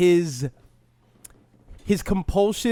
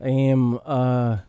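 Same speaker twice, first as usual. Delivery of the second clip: Conor McGregor impression. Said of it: "You sound like a rapper".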